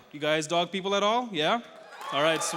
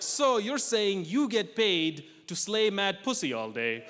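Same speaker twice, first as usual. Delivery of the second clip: cheeky quip; 6 semitones higher, 3 dB louder, slower than usual. Retold or imitated. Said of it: "I'm like".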